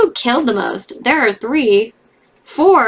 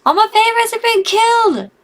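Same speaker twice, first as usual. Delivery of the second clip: much higher, loud exaggerated lament; despairing wail; 12 semitones higher, 4 dB louder than usual. Real, not acted. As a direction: wail it to the heavens. All favorites dead.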